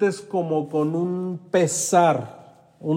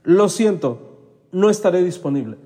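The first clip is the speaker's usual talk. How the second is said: a clear, firm no with a touch more lift; firm polite refusal; 2 semitones higher than usual. Shown as a demonstration. Coach showing the audience how to decline, firmly. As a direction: model the line for the audience to repeat. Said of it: "repite conmigo".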